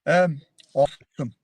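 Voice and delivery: drawn-out American "awesome"; American accent. Pretend. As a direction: say it like an American, stretched out. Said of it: "how about an American accent for us".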